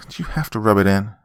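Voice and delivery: quick, irritated snap; snapping. Acted. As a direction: snap back fast. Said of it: "Ben snapped".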